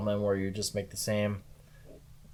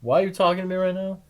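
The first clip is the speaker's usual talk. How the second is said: high, loud, fast indignant snap; mock-indignant, rushing; mock outrage; 11 semitones higher, 6 dB louder, faster than usual.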